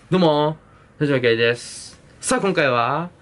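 hyped host, rising to a big reveal; pumped TV host intro. Pretend. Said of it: "みたいなやりたいんですよ".

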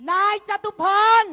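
name him loudly to the crowd; loud accusation. Real, not acted. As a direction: call the name out, high and loud. Naming the culprit to crowd. (ประกาศชื่อเสียงดัง)

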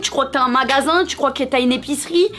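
ton outré de critique, plus aigu; reproche imaginaire. Acted. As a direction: imite quelqu'un qui te demande des comptes, voix montée. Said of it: "Alors là, tu vas me dire". (indignation jouée)

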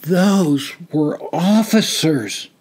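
slow, stunned disbelief. Acted. Tom realising who they shot at, stunned. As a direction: let the shock sink in. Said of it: "Tom said in a stunned voice".

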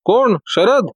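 high, jolted asking; startled question. A narrator's reading. Inspector startled to hear the detective's name, startled. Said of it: "दचकून विचारले".

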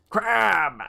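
high startled exclamation; startled cry. Real, not acted. Player reacting to a crab mid-game, startled cry. Startled call while playing.

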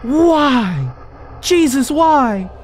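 loud, high alarmed yell; startled yelling at the game; shouted alarm. Real, not acted. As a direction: shout it out in panic. Attacked by enemy Jesus.

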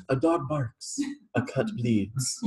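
slow, calm chant-like mantra; slow mantra recital. Shown as a demonstration. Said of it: "just recite that little mantra".

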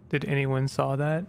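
flat, even robotic monotone. Acted. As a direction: read it like a machine. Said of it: "after I'm done the robot voice".

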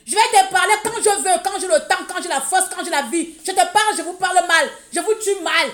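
high, forceful verbal attack; defiant rant. Real, not acted. Telling critics she will speak when she wants, defiant rant. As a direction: push each phrase out high and defiant. Defiant threat to keep talking.

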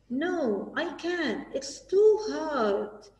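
a hint of a reluctant child; discouraged pupil. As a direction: plead that it's too hard, slowly. Pupil Mona says she can't.

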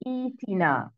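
ईतिना with a long ई flowing into तिना; correct long ई. Shown as a demonstration. Teacher repeats the starting form, long-ई pronunciation. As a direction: hold the ई in ईतिना, no break. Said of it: "इब्दा कर रहे हैं".

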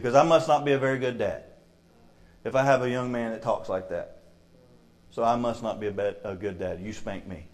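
low, subdued dad blaming himself; understated sorrow, no open sobbing; retold tearful father. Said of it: "and he's crying".

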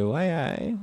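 half-hearted Geordie impression; mock Geordie. Comic quoting Newcastle locals, in a half-hearted Geordie accent. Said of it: "they say".

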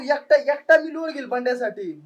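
loud, heated insistence; insistent arguing. Acted. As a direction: argue loudly that you'll handle it alone. Friends quarrel over hosting their friend.

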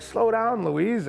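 high, loud urgent warning; retold yell. Telling sister Louise she'll flip the dinghy, loud. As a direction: call her name sharply to slow her. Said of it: "And I'm like".

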